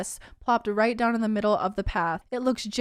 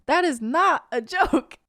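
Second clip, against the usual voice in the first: laughing; 6 semitones higher, 5 dB louder than usual. Real, not acted. Laughing while protesting.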